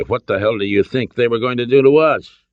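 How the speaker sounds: indignant. A narrator's reading. Son defends himself to his father, indignant. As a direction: throw it back in self-defence.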